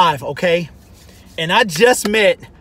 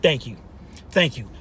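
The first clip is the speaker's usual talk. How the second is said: lower, softer thank-yous; soft retold thanks; 10 semitones lower, 9 dB quieter than usual. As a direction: quietly voice the grateful coach. Coach thanking him quietly.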